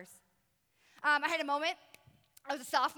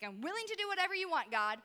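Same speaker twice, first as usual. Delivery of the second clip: higher, quicker protest; mildly exasperated, high-pitched appeal; retold frustration; 5 semitones higher than usual. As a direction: plead your case in exasperation. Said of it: "how I'm frustrated".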